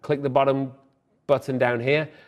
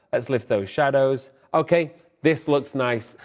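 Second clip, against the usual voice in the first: slightly winded, breathing hard. Real, not acted. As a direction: talk while catching your breath. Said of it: "I'm completely out of breath".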